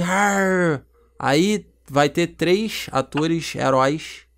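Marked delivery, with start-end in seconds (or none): 0.0-0.8 drawn-out mock monster growl; beast's roar. Shown as a demonstration. Pitching the demon's entrance, drawn-out mock roar. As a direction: lightly imitate a beast's cry. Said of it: "vai vir".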